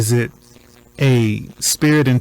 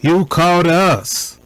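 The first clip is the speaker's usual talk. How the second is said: imitating the officer's tone; 3 semitones higher than usual. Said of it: "Listen to the tone of the officer".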